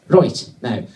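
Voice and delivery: lightly put-on Irish accent. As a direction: start the driver's line in mock Irish. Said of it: "he's going to be Irish".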